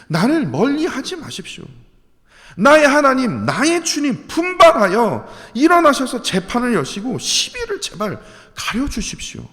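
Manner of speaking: scripture read as a desperate prayer; fervent prayer reading. Acted. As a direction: beg God for justice. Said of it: "다시 한번 읽어드리도록 하겠습니다".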